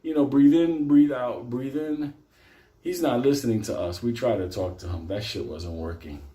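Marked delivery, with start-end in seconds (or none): 0.2-2.1 mock meditation breathing. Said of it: "in this fucking mode".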